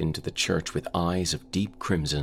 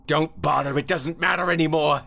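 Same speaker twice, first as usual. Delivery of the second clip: much higher, louder hopeless plea; despairing; 13 semitones higher, 4 dB louder than usual. Acted. Carl telling his friend to stop praying, high despairing cry. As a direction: let it all go, no hope left.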